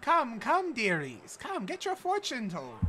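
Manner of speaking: put-on high, crooning old fortune teller. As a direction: beckon them in like a carnival seer. GM voices fortune teller NPC.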